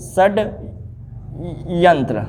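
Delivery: षड्यंत्र drawn out very slowly and softly, shad-yan-tra; slow dictation. Shown as a demonstration. Teacher answering how to write it, slow and soft. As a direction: repeat षड्यंत्र slowly so it can be copied. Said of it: "इसको क्या सही से लिखेंगे?".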